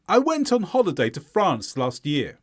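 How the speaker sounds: falling statement, beats on "went" and "France"; stressed content words. Shown as a demonstration. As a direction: model for repeating, falling on "year". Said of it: "Listen to me, then repeat".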